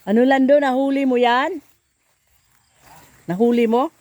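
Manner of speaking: calling out. Real, not acted. Calling to a distant neighbor.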